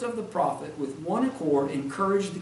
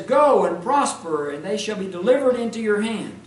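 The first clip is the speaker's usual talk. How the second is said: sarcastic; 3 semitones higher, 6 dB louder than usual. Acted. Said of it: "he must have said that with some sarcasm".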